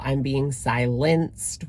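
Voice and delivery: slow, drawn-out mocking imitation; slowed-down mimicked grievance; Amberlynn. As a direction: stretch it out as a mock complaint. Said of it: "like Amberlynn style".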